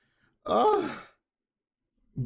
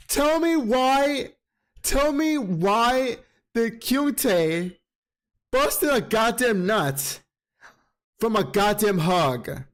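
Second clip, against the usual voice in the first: shocked disbelief; 4 semitones higher, slower than usual. Real, not acted. Shocked reaction to chapter.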